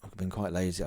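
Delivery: sheepish whisper. Real, not acted. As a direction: confess it in a whisper. Admitting laziness.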